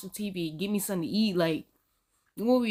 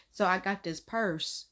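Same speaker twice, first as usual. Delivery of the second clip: slow deadpan; straight-faced; slower than usual. Acted. Warning the joker about the purse, straight-faced. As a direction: say it slowly with a straight face. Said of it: "I would have been straight faced like".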